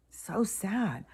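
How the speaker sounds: whispered, slow, heavy-hearted; sad whisper. Real, not acted. Vlogger moved by a grieving girl's video, sad whisper. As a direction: breathe it out as a pained whisper.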